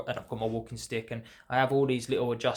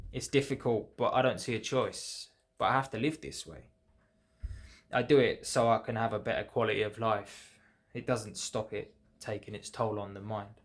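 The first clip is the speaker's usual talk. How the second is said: measured, rhythmic verse delivery; poem reading. Acted. Poet reads own poem about adjusting to disease progression, measured recital. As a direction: recite the lines with pauses between phrases.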